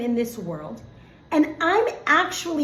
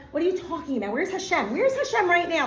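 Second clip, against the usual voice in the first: mock indignant questioning, pitched up; challenging doubters; 5 semitones higher than usual. Doubters challenging the teacher about where Hashem is, mock indignant. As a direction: voice the doubters demanding answers, higher. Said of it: "and we're like".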